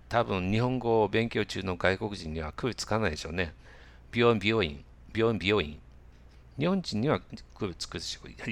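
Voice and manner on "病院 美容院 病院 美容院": 病院、美容院 run off quickly so they sound alike. Shown as a demonstration. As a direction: rattle off 病院、美容院 with little distinction. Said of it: "これ早く言うと". (「病院、美容院」を早口で)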